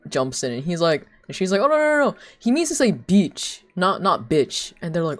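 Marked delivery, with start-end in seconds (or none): 1.6-4.7 high, loud rush of no's; imitated alarmed interruption; urgent correction. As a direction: jump in to clear up a mix-up. Mom jumps in to correct him.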